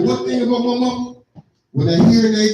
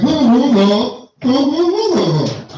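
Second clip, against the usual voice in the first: mock grunting; 3 semitones higher, 3 dB louder, slower than usual. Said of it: "It's sign language".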